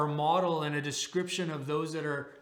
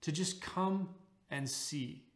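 slow and soft, just come and see; preacher gently inviting skeptics to come and see; gentle invitation; 4 dB quieter than usual. Real, not acted. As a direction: invite them quietly, no pressure. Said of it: "I would ask you, like Philip".

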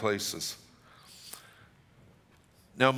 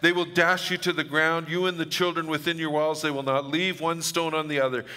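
weeping Jesus; 4 semitones higher than usual. Acted. Jesus weeping over Jerusalem, a hint of a higher lament. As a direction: let Jesus plead over the city, lightly done. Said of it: "And he said".

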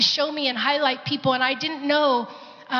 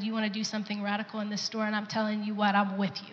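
softer, hushed prayer to God; quiet prayer; 6 dB quieter than usual. Retold or imitated. Woman praying to God outside the store, softer and hushed. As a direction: pray it softly under your breath. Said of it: "And I just got real quiet".

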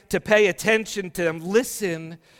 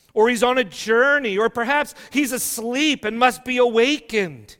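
a higher, louder sneer, jeering; mocking taunt; 5 semitones higher, 5 dB louder than usual. Preacher voicing Elijah jeering at Baal's prophets, higher mocking taunt. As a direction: taunt them like a scoffing prophet. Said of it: "Elijah mocked them".

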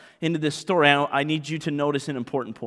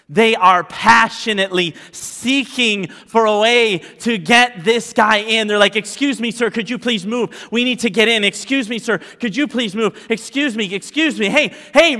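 loud, high, driving sermon climax; full-force preaching; 7 semitones higher, 7 dB louder than usual. Acted. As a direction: preach it with rising fire, pushing hard.

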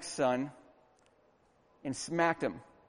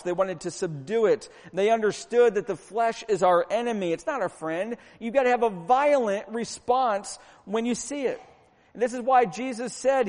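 higher, driving sermon delivery; forceful preaching; 4 semitones higher, 5 dB louder than usual. Real, not acted. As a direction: preach it hard, punching the key words.

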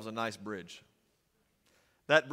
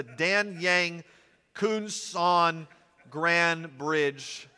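slow, careful foreign name, a bit higher; checking each syllable to avoid a slip; carefully slow name; 4 semitones higher, 4 dB louder, much slower than usual. Real, not acted. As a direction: sound out each syllable of Dan Yang Kunsan. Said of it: "I made sure to say it slow".

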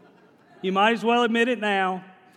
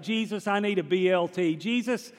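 loud praying; 3 semitones higher than usual. Retold or imitated. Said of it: "she starts praying really loud".

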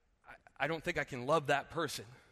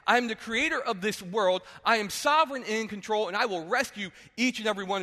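proclaiming God; 4 semitones higher, 5 dB louder than usual. Retold or imitated. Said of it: "He is saying very clearly".

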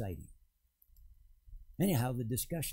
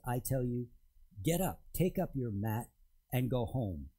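louder, firm command to rise; commanding Jesus; 2 semitones higher, 5 dB louder than usual. Acted. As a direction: speak it as Jesus's authoritative order. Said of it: "Well, Jesus says".

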